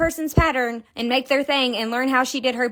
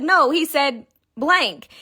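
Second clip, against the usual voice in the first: confident; 4 semitones higher, 3 dB louder, slower than usual. Retold or imitated. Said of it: "I said it so confidently".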